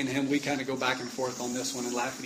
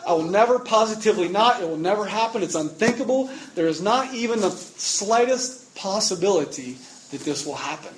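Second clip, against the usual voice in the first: emphatic declaration; 4 semitones higher, 4 dB louder than usual. Acted. Preacher voicing emphatic paraphrase.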